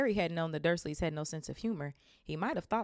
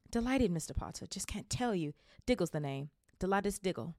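excited little man; 3 semitones higher than usual. Acted. Excited wizard introduces himself.

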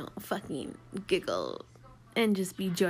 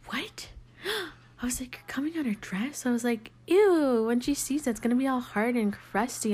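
retold shock; 5 semitones higher than usual. Retold shocked reaction to client.

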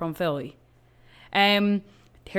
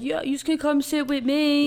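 mock creepy guy; 7 semitones higher than usual. Guy invites them in booth.

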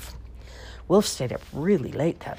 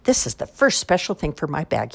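excited; 4 dB louder than usual. Acted.

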